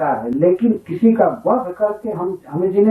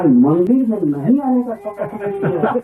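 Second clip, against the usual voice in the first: words rising into a real laugh; amused, laughing; 5 semitones higher than usual. Real, not acted. Preacher telling a congregation about a silly oath, amused and laughing. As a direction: let amusement lift the question until laughter breaks in.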